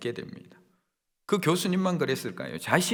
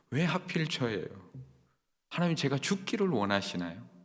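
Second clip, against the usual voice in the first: lament prayer; 2 semitones lower, 4 dB quieter than usual. Retold or imitated. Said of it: "우리는 저절로 기도가 터져 나옵니다".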